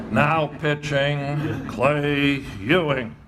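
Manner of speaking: slow drawn-out PA introduction; imitating the announcer calling the new pitcher; stadium announcer. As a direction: stretch it like a ballpark loudspeaker.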